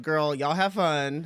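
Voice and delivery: slow, drawn-out dismissive brush-off. Retold or imitated. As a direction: wave them off slowly. Dismissive quote to Cubans.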